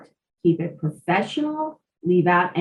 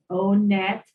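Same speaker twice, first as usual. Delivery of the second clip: slow, measured web address read-out; unhurried, letter by letter; a little slower. Shown as a demonstration. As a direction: spell it out slowly for someone writing it down. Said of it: "I'll repeat that a little slower".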